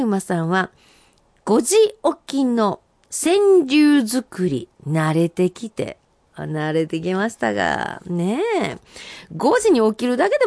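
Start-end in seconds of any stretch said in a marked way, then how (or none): 1.4-6.0 senryu recital. Acted. Reading senryu aloud.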